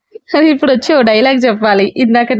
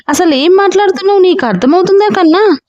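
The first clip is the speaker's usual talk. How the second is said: higher, fast, frantic questions; distraught sister, rushed and higher; frantic asking; 7 semitones higher than usual. A narrator's reading. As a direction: ask like a woman losing her mind. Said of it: "పిచ్చిదానిలా అడిగింది నీరజ".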